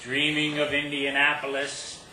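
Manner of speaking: measured poetry reading with stressed phrases and deliberate pauses; poem recital. Acted. Poet telling an audience about a childhood kiss, poem recital.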